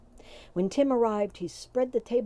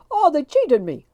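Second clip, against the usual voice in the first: loud anguished howl, pitched up high; 8 semitones higher, 12 dB louder than usual. A narrator's reading. Tim howling that the wee folk cheated him. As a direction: howl out the betrayal, full throat. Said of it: "howled Tim".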